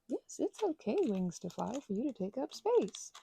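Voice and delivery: self reassurance. Retold or imitated. Reassuring self-talk quote.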